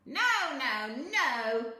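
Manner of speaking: loud, high gleeful no; gleeful cheer. A narrator's reading. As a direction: gloat with delight. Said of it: "cheered the little man".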